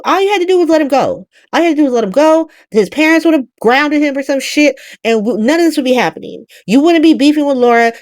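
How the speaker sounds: a mild mock tirade, scolding; reading him down. Britt chewing out the warlord, a mock tirade. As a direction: scold him with rising heat. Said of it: "Britt starts reading his ass down".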